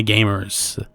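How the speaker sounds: gamers with an American r, ending in a rolled-on "er"; Americanish gamers. Real, not acted. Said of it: "I said gamers, kind of Americanish".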